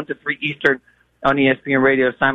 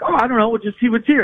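imitating wife; 8 semitones higher than usual. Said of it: "And she's like".

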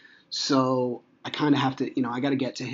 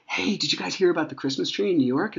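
put-on bright, higher-pitched question for kids; excited dad; 6 semitones higher than usual. Dad asks his kids about the tree, excited. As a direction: share exciting news with the children.

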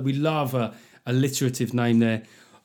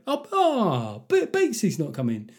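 mock disappointed; 9 semitones higher than usual. Mates learning their friend isn't coming, hammed-up disappointed. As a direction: let down and worried for a mate, hammed up high. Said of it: "everyone would be disappointed".

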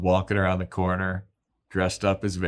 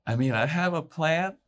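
timid Buffy; 5 semitones higher than usual. Retold or imitated. Buffy voiced in retelling.

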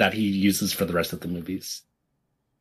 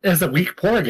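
porg impression; 7 semitones higher than usual. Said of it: "Is that it?".

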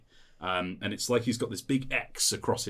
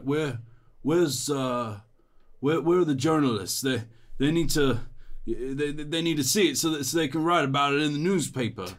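loud, higher, stammering hero voice; dazed vainglorious hero; 7 semitones higher, 5 dB louder than usual. Acted. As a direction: stumble over the words, anxious for an audience.

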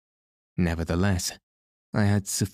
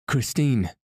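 calling a name higher into the dark; crying out; 5 semitones higher than usual. Acted. A mild call, raised in pitch. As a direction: narrator crying out for Christine across the cellar. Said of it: "I cried".

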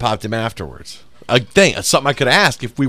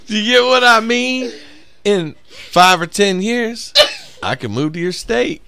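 higher, slowed creepy earnest plea; mimicking the guy; 12 semitones higher than usual. Retelling the guy pitching a move to her state, slow mock. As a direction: lean in like a weird suitor, drawn out. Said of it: "He says".

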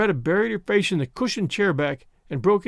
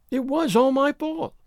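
steady; 10 semitones higher than usual. A narrator's reading. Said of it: "she said steadily".

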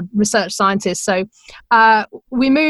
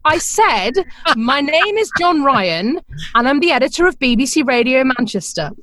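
weary repeat; 3 semitones higher than usual. Retold or imitated. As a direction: spell it out again like talking to someone who didn't hear. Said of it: "I heard him sigh and go".

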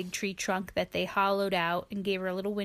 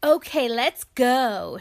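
announcing; 6 dB louder than usual. Acted. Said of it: "Sheila announced".

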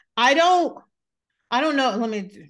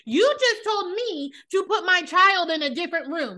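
high, drawn-out outrage; slow, heated telling-off; indignant confrontation; 7 semitones higher than usual. Acted. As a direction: throw each accusation at her slowly, pitched high. Imagined confrontation with the neighbour.

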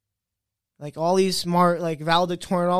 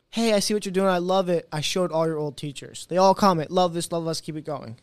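retold enthusiasm; 4 dB louder than usual. Acting out old teacher's encouraging message.

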